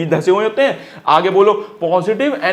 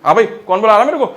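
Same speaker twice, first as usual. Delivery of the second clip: calling out; 3 dB louder than usual. Retold or imitated. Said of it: "ऐसे आवाज का, ऐसे रिएक्ट कर रहे हैं".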